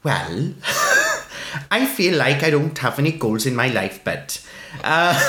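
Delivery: put-on lilting Welsh accent, breaking into laughter. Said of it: "speaks with a Welsh accent".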